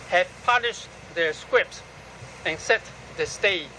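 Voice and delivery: firm, deliberate recital in short phrases; measured poetry recital, opening words punched; poem reading. Acted. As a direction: declaim the poem line by line, with pauses. Reads own poem aloud.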